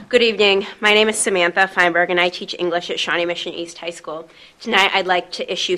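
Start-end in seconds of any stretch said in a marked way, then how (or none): 0.1-3.8 teacher voice. Real, not acted. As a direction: project to the back of the room. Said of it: "I'll just use my teacher voice".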